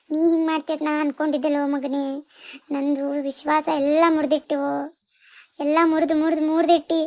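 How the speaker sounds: grief-stricken sing-song wailing; wailing lament. Acted. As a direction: wail the betrayal, stretching the last vowels.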